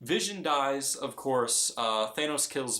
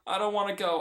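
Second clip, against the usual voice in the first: lightly voiced young hero, higher and pleading; Peter Parker pleading; 8 semitones higher than usual. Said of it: "Peter Parker saying".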